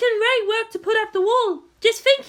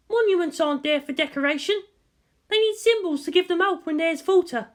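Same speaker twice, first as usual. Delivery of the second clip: a touch of hollowness, lightly lower; hollow voice; 4 semitones lower than usual. Acted. Mana answering Maya about symbols, lightly hollow. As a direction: say it emptied out, as if it costs nothing. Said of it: "her voice hollow".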